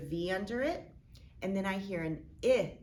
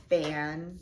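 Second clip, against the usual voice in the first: "bandit" as ban, long pause, dit; two separate chunks for "bandit"; split into syllables; 2 semitones lower, 5 dB louder than usual. Shown as a demonstration. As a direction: cut "bandit" between n and d. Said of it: "cut my word apart right between".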